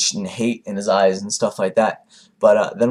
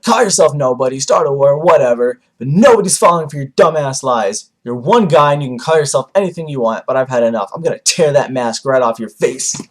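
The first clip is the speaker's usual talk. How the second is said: telling off; 4 semitones higher, 5 dB louder than usual. Retold or imitated. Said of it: "Naruto just goes on to tell Toby off".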